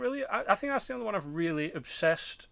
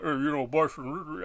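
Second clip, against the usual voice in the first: mumbled Stallone. Retold or imitated. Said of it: "he'd be like".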